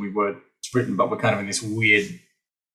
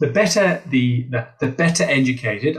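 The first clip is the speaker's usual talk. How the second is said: air quotes. Shown as a demonstration. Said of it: "rabbit ears in the air here to indicate inverted commas".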